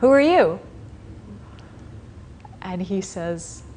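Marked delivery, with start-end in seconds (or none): 0.0-0.6 put-on high, loud croaking challenge from a hunched old woman; lightly voiced crone demanding who he is; grotesque old hag. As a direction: bark the question up high like a drooling crone. Grotesque old woman confronts scholar.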